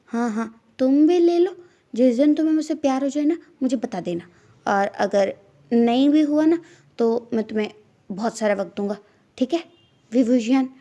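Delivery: put-on drunk. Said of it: "नशे में धुत".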